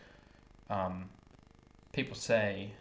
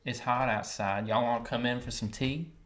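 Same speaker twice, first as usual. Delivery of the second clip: Lowcountry accent. Shown as a demonstration. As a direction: speak in an easy Lowcountry accent. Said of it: "that's kind of the low country accent".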